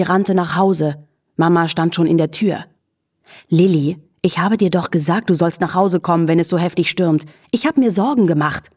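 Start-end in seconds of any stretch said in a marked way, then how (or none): 3.5-8.7 schimpfend. Acted. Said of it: "schimpfte sie".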